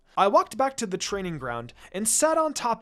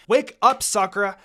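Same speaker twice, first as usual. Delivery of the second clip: calling her awake; 3 semitones higher, 8 dB louder than usual. Acted. Slapping unconscious girl awake.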